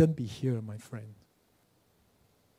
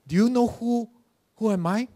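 put-on a touch of a haughty old woman, pitched up; demanding her status be known, raised and louder; indignant old mother; 7 semitones higher, 5 dB louder than usual. Old mother to the usher: mildly indignant, raised voice.

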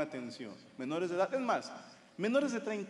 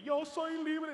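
mocking high voice; 11 semitones higher, much slower than usual. Mocking women's line.

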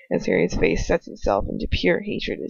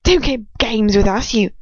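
furious, louder and higher; shaking with fury; 3 semitones higher, 4 dB louder than usual. Acted. Bellatrix snarling at Harry in fury. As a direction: spit it at him in rage. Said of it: "shaking with fury".

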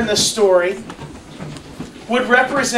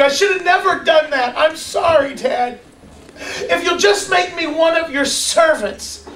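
higher, pleading apology to his dad; pleading son; 5 semitones higher than usual. Acted. A runaway son begging his father to take him back, higher and pleading. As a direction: beg forgiveness like a broke, hungry son. Prodigal son begs forgiveness.

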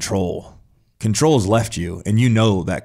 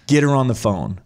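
retold demand; 4 semitones higher than usual. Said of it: "I'm like".

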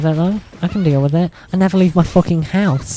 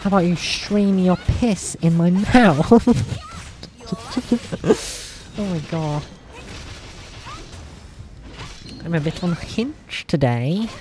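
trying out a higher voice, held a little high; testing her higher register; practised higher voice; 3 semitones higher than usual. Shown as a demonstration. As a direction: lift the voice for voice training. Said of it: "I need to work on voice training".

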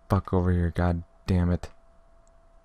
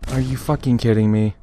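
loud, high exasperated swearing; angry outburst; 6 semitones higher, 6 dB louder than usual. Real, not acted. Gamer at another setback, angry disbelief. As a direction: burst out in real disbelief and anger.

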